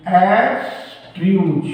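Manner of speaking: एब्स्ट्रूज said again, slowly and clearly; slow repeat. Shown as a demonstration. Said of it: "फिर हमने कहा".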